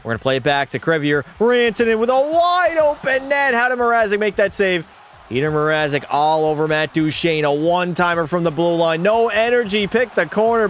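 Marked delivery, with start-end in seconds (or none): 0.0-9.0 rapid hockey broadcast call; play-by-play call. Acted. Streamer as announcer calling a goalie barrage. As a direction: rattle off the shots like an announcer. Announcer calls shots and saves.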